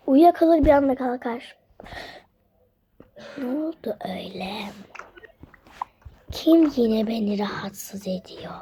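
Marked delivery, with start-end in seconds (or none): 3.4-8.5 whisper. Pretend. Woken witch figure speaks.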